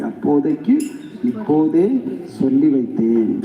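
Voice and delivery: அப்போதைக்கு, இப்போதே, சொல்லி வைத்தேன் spaced out with pauses; slow word by word. Shown as a demonstration. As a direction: lay out each word slowly for the listeners. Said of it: "for that time I am telling now only".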